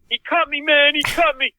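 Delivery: high panicked mock scream; imitated screaming. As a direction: yell it like a man who was just slashed. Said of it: "he starts screaming".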